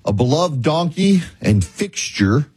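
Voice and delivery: grave delivery with long dramatic pauses; mock-solemn announcement. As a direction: break it into short, weighty phrases, pausing long between them. Grave announcement of donkey's death.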